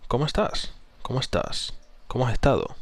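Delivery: ESTÁS and ESTADO in a contained register; neutral or falling tone. Shown as a demonstration. Coach repeating the better version, ESTÁS and ESTADO neutral. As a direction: let ESTÁS and ESTADO settle, without gushing. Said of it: "tono neutral o decreciente".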